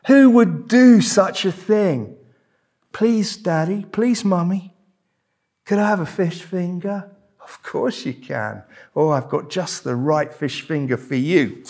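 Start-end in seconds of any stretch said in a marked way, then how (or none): 2.9-7.1 put-on higher-pitched little child pleading. Child asking Daddy and Mummy for a fish finger, pleading child. 7.4-11.6 a hint of an obliging parent, hushed; lightly voiced parent. Parent promising a child a fish finger, lightly voiced parent.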